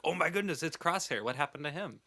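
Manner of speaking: high, shocked "what happened"; surprised gasp. Retold or imitated. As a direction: react in sudden alarm. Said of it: "we're like".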